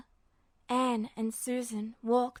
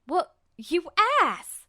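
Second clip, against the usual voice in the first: higher, louder angry retort; affronted yell; 5 semitones higher, 4 dB louder, slower than usual. A narrator's reading. Ed yelling at smug Roy, higher and louder. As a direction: snap back, stung.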